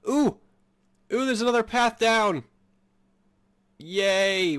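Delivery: high, loud excited squeals; delighted by the discovery. Real, not acted. Gamer thrilled to find another path, excited squeal.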